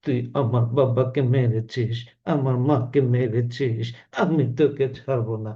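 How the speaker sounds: slow, lightly dramatic film-hero vow; a hint of a vengeful movie hero, drawn out; Omar Sunny dialogue. Teacher imitating Omar Sunny's revenge line, slow. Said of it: "আবার ওমর সানি বলবে যে কি".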